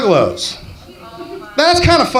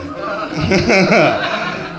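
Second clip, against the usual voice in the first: comedian's amused chuckle; real laugh; 3 semitones higher than usual. Real, not acted. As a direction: laugh at the crowd's reaction. Comedian cracks up at audience.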